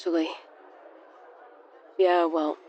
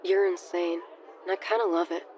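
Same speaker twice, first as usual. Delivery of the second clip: soft, low muttered aside; 4 semitones lower, 7 dB quieter than usual. A narrator's reading. Penn mutters to his friends, softly. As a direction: mutter it under your breath, amused. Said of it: "Penn muttered".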